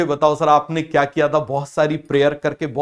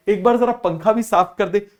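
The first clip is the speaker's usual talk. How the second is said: higher, coaxing mother voice asking a favour; mock mother; 5 semitones higher than usual. Teacher voicing a mother asking her son to clean, lightly coaxing. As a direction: play the mom sweetly piling on chores.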